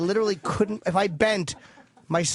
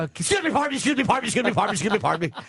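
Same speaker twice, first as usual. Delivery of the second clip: high prim little voice, fading back down; the poop squeezing past politely, starting high; 4 semitones higher, much faster than usual. Pretend. Poop pushing its way out politely, high then fading. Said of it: "And the shit goes".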